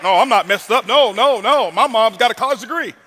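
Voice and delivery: lightly mocked defensive objection; mock indignant denial. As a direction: play a listener in huffy denial. Mocks audience member in denial.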